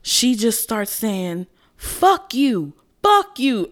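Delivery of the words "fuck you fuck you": mildly raised mock drunken cursing; drunken outburst. Drunk colleague suddenly cursing at nobody on a night out, mock outburst. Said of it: "absolutely batshit drunk and crazy".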